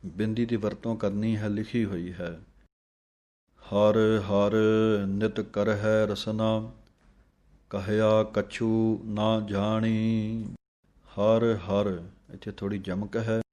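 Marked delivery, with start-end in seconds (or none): 3.6-10.4 slow, devout chanting of scripture; measured devotional reading; slow gurbani recitation. Acted. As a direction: recite it slowly like a hymn.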